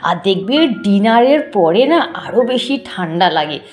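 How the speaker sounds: shivering with cold, teeth clattering; teeth chattering. Real, not acted. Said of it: "রীতিমতো আমার দাঁতে দাঁত লেগে যাচ্ছে".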